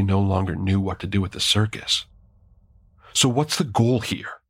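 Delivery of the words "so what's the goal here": deliberately callous. A narrator's reading. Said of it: "I made my voice deliberately callous".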